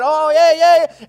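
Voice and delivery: children's delight, voiced high and loud; excited kids. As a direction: squeal like children hugging a pet. Kids hugging the lamb.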